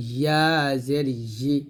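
ইয়া জের ই with mid-tongue against the palate. Shown as a demonstration. Teacher shows where ya is made, palatal ইয়া. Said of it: "জিহ্বার মধ্যখান তার বরাবর উপরে তালুর সঙ্গে লাগিয়ে".

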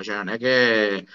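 usual speaking voice

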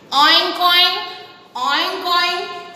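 light mock pig oink. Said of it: "says the pig".

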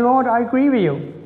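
lightly voiced prayer of confession; humble confession. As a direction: confess it simply to the Lord. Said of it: "which is saying".

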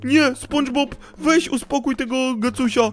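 high, loud panicked yelps; panicked yelling. Pretend. Gamer yelling at the pet snail attacking him, high and panicked. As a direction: yell like you're being bitten and can't get away.

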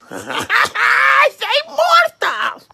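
slow, laughing through the words; taunting through a laugh. Acted. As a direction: chuckle it out slowly.

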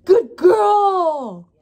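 high gushing praise with a cry in it; dog voice. Real, not acted. Owner praising her puppy in a high gushing voice. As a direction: swoon over the good puppy. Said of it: "my dog voice is just hilarious".

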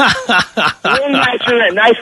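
laughing. Real, not acted. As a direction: savor it with a laugh. Laughing, slow, quieter.

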